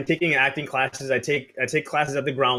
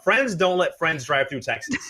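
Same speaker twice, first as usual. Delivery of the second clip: laughing exclamation. Real, not acted. Laughing outburst about the trip.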